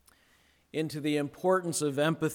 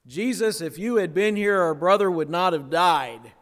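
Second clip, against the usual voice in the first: grieving sisters; 3 semitones higher, 6 dB louder than usual. Acted. Pastor voicing the grieving sisters to Jesus, louder plea. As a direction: plead like a sister who lost her brother. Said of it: "they say word for word the same thing".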